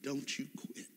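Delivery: soft, urgent plea; hushed plea. Real, not acted. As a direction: press it gently into them. Preacher urging the congregation.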